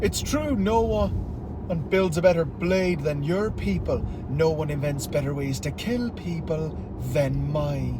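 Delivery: lightly put-on Irish accent. Shown as a demonstration. Asked for Irish, quoting Fowler, mild Irish accent. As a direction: quote a villain with a touch of Irish. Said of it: "wasn't that an Irish accent".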